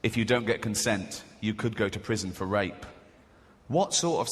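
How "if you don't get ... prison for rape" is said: low, measured public-warning voiceover; advert voiceover. Acted. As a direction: read it as a sober advert tagline. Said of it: "And the voiceover goes".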